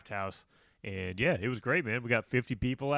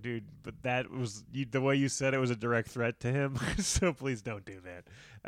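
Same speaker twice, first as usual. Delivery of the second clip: serious. Retold or imitated. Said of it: "Said very serious".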